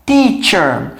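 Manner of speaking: teacher repeated as tee-cher; English teacher. Shown as a demonstration. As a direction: repeat teacher for students to copy. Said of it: "muita gente pronuncia errado".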